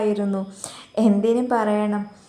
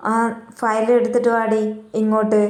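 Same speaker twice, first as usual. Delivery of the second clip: a mildly raised, curt command; angry order; 3 dB louder than usual. Retold or imitated. Boss snapping at his employee to bring the file, in a mock angry tone. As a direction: bark it at her half-heartedly, as a retold order. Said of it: "കലിപ്പിൽ തന്നെ അവൻ പറഞ്ഞു".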